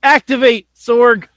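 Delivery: high, emphatic mock activation call; playful, punchy command; mock announcement. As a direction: announce it like switching on a special mode. Mock announcement activating a show mode.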